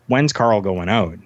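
slow, deliberate retold demand; pointed question. The Patriot confronting the promoter, slow and pointed. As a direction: put the question slowly, as a mild challenge.

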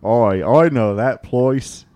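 slow, drawn-out Aussie put-on; exaggerated mock Aussie; mock Australian accent. Mock Australian after hearing Melbourne.

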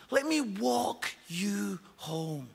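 slow, gentle invitation; tender offer. Pretend. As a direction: say it like walking someone home.

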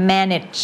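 "manage" ending in a brief -idge; short -itch ending. Shown as a demonstration. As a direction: model "manage" with a weak i in the last syllable. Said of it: "ก็จะเป็นเสียง it".

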